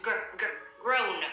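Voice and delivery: "gr-, gr-, grown", opening G-R isolated softly first; sound-by-sound correction. Shown as a demonstration. Teacher shows a student the blend, sound-by-sound correction. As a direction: sound out the G plus R, then "grown". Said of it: "không có đọc chữ G".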